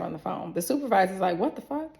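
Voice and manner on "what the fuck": high-pitched, baffled supervisor; imitated shock. Supervisor hearing the nurse's news, imitated shocked reaction. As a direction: squeak out the disbelief, imitating someone on the phone.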